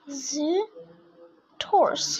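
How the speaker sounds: drawn-out word with a falling end; very slow model word. Shown as a demonstration. Teacher modelling the whole word for students, very slow and drawn out. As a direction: stretch the word out slowly for the class to copy. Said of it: "This is how we do syllables".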